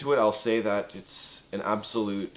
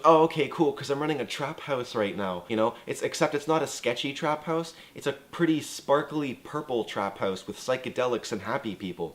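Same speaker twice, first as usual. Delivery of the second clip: bubbly boast; 5 semitones higher than usual. Retold or imitated. Samantha boasting of trap house.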